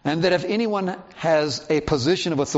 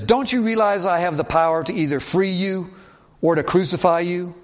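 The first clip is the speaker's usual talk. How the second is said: higher-pitched, mildly irked challenge; a little irked; 4 semitones higher than usual. Acted. Pilate challenging Jesus about his power, mildly irked. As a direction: put a touch of impatience into it. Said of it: "Pilate gets a little irked".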